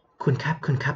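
a near-whisper, too soft to wake anyone; شبه همس. Shown as a demonstration. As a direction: call the patient softly, as if whispering. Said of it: "ไม่ใช่กระซิบกันนะ".

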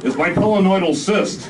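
high, whiny and loud; a high, aggrieved whine from the back; whiny Limbaugh voice. Acted. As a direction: whine it like a big baby. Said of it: "came the voice in the rear".

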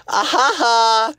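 slow, high fake laugh; mock laugh. Reacting to a viewer's pickup line, slow mock laugh. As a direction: space out each fake ha.

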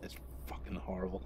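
hushed, disgusted whisper. Real, not acted. Whispering to viewers about the vile meal, disgusted. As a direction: breathe it out like a grim confession.

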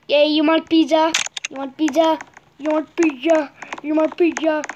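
pizza pitch in a mock Italian accent. Player offering pizza over and over, playful Italian accent. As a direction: put on an insistent Italian voice. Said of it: "That is my Italian voice".

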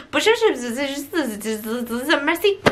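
clipped French Bonjour, merci, lightly mocked; French guy. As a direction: toss off Bonjour and merci like a bored French attendant. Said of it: "the French guy who's like".

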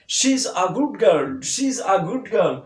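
put-on very slow, loud "she's a good girl", s as z; drilling the sentence slowly. Shown as a demonstration. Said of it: "উচ্চারণ দন্তুস্ব না হয়ে হবে জ".

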